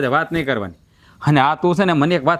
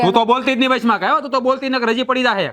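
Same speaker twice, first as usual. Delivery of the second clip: angry threat; 6 semitones higher than usual. Acted. Husband threatening his wife.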